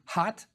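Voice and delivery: "hot" with a forceful, breathy h; "hot" with the h breathed out forcefully; emphatic H. Shown as a demonstration. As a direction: push air out hard on the h of "hot". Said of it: "the reed hut is more emphatic".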